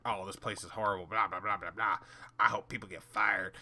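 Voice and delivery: a light imitation of a whiny complainer; mock the moaning customer.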